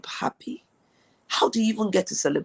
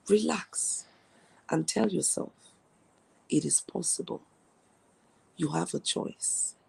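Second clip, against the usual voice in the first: soft reassurance; 6 dB quieter than usual. Acted. Calming viewers in a live session.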